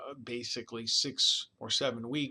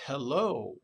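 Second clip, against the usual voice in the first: HELLO drawn out, louder, rising to a peak then dropping; parent's singsong inflection; 5 dB louder than usual. Shown as a demonstration. Lecturer demonstrates a parent's hello to a baby, singsong inflection. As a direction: stretch "hello" into a clear up-and-down tune. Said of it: "drop and then the peak".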